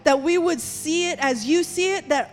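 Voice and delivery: rising, loud fervent prayer over the people. Real, not acted. Pastor praying over the congregation, loud and fervent. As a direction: pray it out boldly, pressing on each line.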